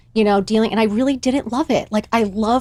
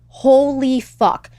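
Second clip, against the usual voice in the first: slow, higher, drawn-out disbelief; retold stunned shock; 4 semitones higher, much slower than usual. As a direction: stretch both words out, stunned. Stunned by mother's phone call.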